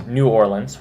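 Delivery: "New Orleans" as "new OR-lunz"; favorite pronunciation. Shown as a demonstration. Giving viewers her favorite, "New Orleans" as "new OR-lunz". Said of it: "which is my favorite".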